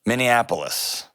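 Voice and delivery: Minneapolis as MIN-ee-AP-olis, no added N; corrected place name. Shown as a demonstration. Host retries for the caller, corrected Minneapolis. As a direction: carefully say Minneapolis without the extra N. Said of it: "There you go".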